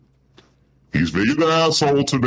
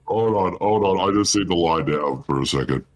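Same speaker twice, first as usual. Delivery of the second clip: put-on drunk voice; 5 semitones lower than usual. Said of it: "Toby just passed out".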